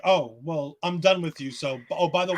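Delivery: mock offhand, low-key dismissal; unexcited brush-off. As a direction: toss it off as an afterthought, imitating him. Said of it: "he doesn't even, like, say it like, like he's excited".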